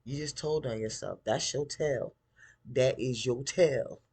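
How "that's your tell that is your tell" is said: louder and slower on the second tell; emphatic callout. Real, not acted. Viewer calling out Gideon's tell, loud and slow. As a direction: punch each word of "That is your tell". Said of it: "calling out Gideon".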